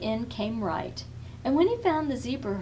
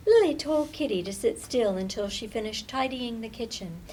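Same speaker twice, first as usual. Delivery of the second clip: plain reading voice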